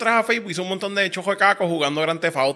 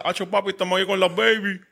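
laid-back Puerto Rican street guy; generic caco voice; 3 semitones higher than usual. Retold or imitated. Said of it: "mi voz de caco genérico".

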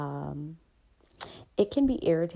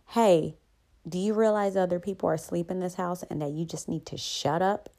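retold yell. Grown son imagining yelling at his father, mock yell. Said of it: "yell at my father years ago and say".

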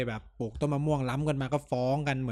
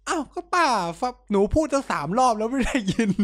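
higher, snippy complaint; mock exasperated nurse; 7 semitones higher, 3 dB louder than usual. Friend imitates nurse snapping back at pushy auntie. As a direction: sound fed up with the auntie.

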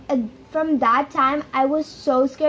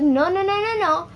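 urgent refusal; 5 semitones higher than usual. Retold or imitated. Retold refusal, friend opening wardrobe.

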